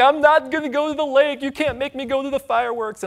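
hammed-up mock tantrum from a kid; retold child's scream.

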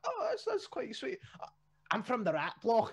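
mock sweet reply. Podcast host acting a Rat Block local, high mock-sweet voice. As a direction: sound falsely sweet, then land the bombshell. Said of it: "And you're like".

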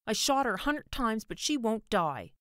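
put-on high, loud boyish complaint; child yelling. A narrator's reading. Boy with toy pistol to his mother, yelling. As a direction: yell it in protest, slowing on the last words. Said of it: "he yelled".

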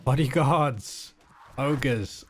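drawn-out battle cry, loud and high; shouted command. Real, not acted. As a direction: call the troops like a general. Game commander calling troops.

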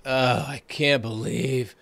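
lightly voiced receptionist, mopey and put-upon; a hint of a grumbling coworker dreading Monday; gloomy complaining. Imitating the receptionist grumbling about Monday, mildly mopey. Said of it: "like, just negative attitude".

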